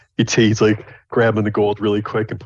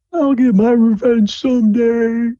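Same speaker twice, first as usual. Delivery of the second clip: distant quiet threat; 7 dB louder, slower than usual. Acted. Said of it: "in a kind of distant, quiet voice".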